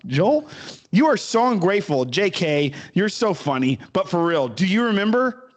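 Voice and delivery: reading a creepy fan letter in a put-on voice. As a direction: read it like a clingy stalker's letter.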